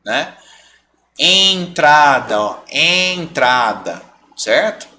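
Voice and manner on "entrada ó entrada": ENTRADA with a long nasal EN; slow ENTRADA, first E through the nose; nasal vowel. Shown as a demonstration. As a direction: stretch the nasal start of ENTRADA. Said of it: "função da letra diacrítica na vogal".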